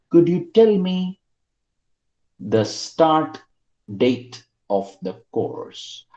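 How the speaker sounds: slow, deliberate model answer; slow model sentence. Shown as a demonstration. Teacher modelling an indirect question slowly. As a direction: stretch it out for learners. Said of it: "So I say".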